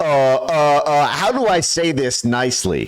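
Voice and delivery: very slow, hesitant, halting, stammering start. Mocking the hesitation of a speaker in a clip: imitating someone pausing and hesitating. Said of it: "Notice the big pause".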